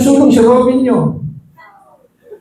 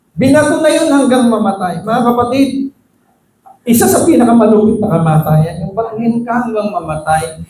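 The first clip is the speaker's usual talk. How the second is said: usual speaking voice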